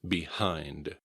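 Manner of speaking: "Behind." ending on a sounded D; a careful "Behind." with its D audible; final D kept. Shown as a demonstration. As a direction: finish "Behind." without dropping the D. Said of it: "keep the D at the end".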